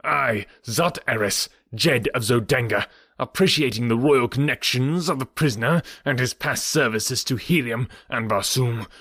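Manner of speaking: trembling with rage. Acted. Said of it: "his voice trembling with rage".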